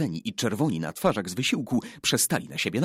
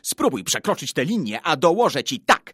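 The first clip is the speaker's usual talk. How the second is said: loud, higher-pitched dare; boyish threat; 5 semitones higher, 6 dB louder than usual. A narrator's reading. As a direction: warn the rival off with bluster. Tomek's threat over the line. (zaczepna groźba podniesionym głosem)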